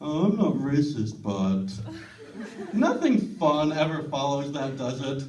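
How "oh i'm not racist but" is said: mock racist excuse. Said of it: "tries to deny being racist".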